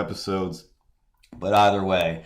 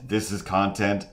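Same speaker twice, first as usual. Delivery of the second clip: mock outrage, pitched up; incredulous question. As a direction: ask it like you can't believe it. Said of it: "have just been like".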